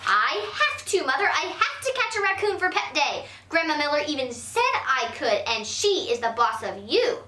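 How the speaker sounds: put-on insistent little girl. A hint of a girl insisting to her mother about Pet Day. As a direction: plead your case hard.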